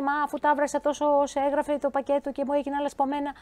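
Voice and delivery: lightly voiced puzzled home cook; mild mock whine of a viewer whose pasta broke; complaining viewer. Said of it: "Πολλές φορές μου λέτε".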